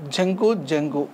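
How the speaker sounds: జంకు stretched out slowly, twice; slow drill. Shown as a demonstration. Teacher drills జంకు slowly for the class. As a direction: spell out జంకు slowly for learners. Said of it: "teacher drills word slowly".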